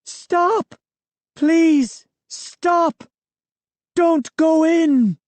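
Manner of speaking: very high, shrill desperate shout; shrill cry. A narrator's reading. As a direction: scream it out, pleading. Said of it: "a shrill cry from behind us".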